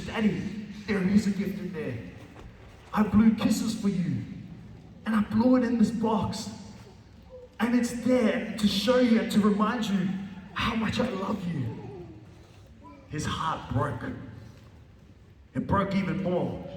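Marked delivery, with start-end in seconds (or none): 0.0-11.6 lightly voiced earnest child; tender little girl. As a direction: gently tell Daddy about the kisses. Girl explains blown kisses.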